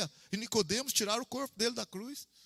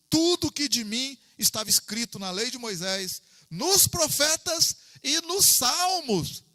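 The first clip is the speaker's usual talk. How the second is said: slow, louder, lifted reading of the verse; solemn scripture reading; 4 semitones higher, 4 dB louder, slower than usual. Acted. Preacher reading Jesus' words to the church, slow and solemn. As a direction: proclaim the words of Jesus slowly.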